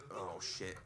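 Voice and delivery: softly voiced iguana, wary of snakes; nervous iguana. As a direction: murmur it like prey sensing danger. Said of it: "iguana in it, like that".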